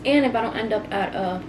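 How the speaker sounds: talking with a mouth full of food; chewing while she talks. Real, not acted. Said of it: "sorry, I'm talking about my mouth full".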